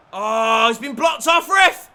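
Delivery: loud, high protest; outraged appeal. Real, not acted. Gamer yells at the referee over a block, outraged appeal. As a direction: shout at the ref.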